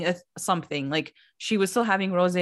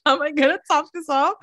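higher, louder, laughing panic; mock stumped Joe Gorga; 6 semitones higher, 3 dB louder, faster than usual. Joe Gorga on the bench, panicking about topping the answer, louder and higher. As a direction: play it like a guy frantically searching for words.

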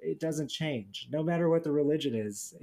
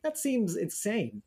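incredulous; 8 semitones higher than usual. Retold or imitated. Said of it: "And be like".

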